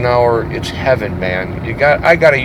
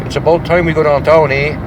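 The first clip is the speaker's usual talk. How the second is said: put-on Yooper accent. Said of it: "So I slipped into the".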